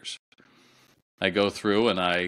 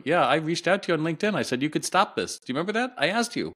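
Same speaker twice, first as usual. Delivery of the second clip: indignant retort; 8 semitones higher, faster than usual. Retold or imitated. Confronting the sales manager again.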